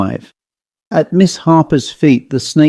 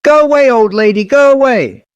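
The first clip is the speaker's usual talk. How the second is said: high, insistent quack of a shout; quacking doll; 11 semitones higher than usual. A narrator's reading. Doll orders the old lady away, quacking high. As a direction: quack it fast and high to drive someone off. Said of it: "she quacked".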